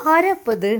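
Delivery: loud, high call toward the door; calling out who's there. Acted. Rejinatha calls out to the visitors at the door, loud and high. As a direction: shout the question across the house.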